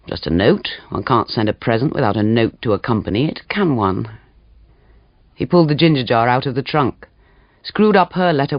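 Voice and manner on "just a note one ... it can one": sly man voice. Acted. Morris sly, lower voice.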